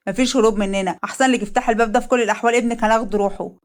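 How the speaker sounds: a hint of menace, rushed middle; threatening through the door; threatening thug.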